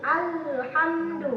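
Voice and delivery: drawn-out Alhamdu, lam clear and medium; slow tajwid reading. Shown as a demonstration. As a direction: read Alhamdu slowly, every letter shaped. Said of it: "al, hamdu". (bacaan Alhamdu pelan dengan lam jelas)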